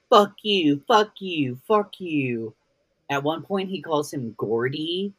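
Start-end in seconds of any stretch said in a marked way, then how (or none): 0.1-2.5 loud bratty fuck you, fading each time; childish angry fuck you. Retold or imitated. Retelling David cursing at Gordon like a child, loud. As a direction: spit it out like a tantrum-throwing child. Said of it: "being like".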